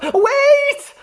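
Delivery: high, loud cry of wait; yell. Acted. Dorothy yelling after Toto, high loud yell. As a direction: call out to stop him. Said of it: "yelled Dorothy".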